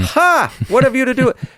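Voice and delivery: high mock demon cry. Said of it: "the demon cried out with a loud voice".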